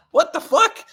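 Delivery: high, loud "what the fuck" in disbelief; stunned disbelief. Retold or imitated. Retelling his shock at the hedge fund guy's new life, high and loud. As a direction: blurt it out, floored by the news. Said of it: "And I'm like".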